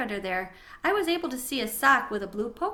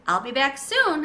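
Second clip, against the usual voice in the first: called out higher and louder; calling back; 4 semitones higher, 7 dB louder than usual. A narrator's reading. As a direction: call back across the room. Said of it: "I called back".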